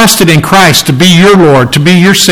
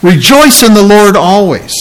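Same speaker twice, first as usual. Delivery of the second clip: "Rejoice" pitched higher for emphasis; emphatic repeat; 4 semitones higher than usual. Retold or imitated. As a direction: lean firmly on "Rejoice", voice lifted. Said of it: "He double emphasis".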